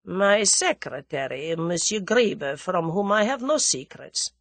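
slow, measured Russian official; lightly voiced Russian, slow and courteous; suave Russian dignitary. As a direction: play a formal Russian, taking time over each word.

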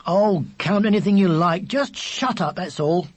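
put-on exasperated older brother; irritated, emphatic telling-off. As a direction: brush him off, fed up. Older brother tells younger to shut up.

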